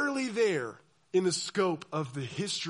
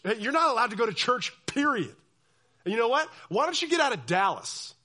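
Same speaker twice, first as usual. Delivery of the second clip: mock banishment; 4 semitones higher, 4 dB louder than usual. Church leader banishing dissenter.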